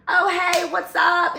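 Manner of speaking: high-pitched, loud retold hello; friendly greeting. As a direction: act out calling a chirpy hello back. Acts her own friendly reply.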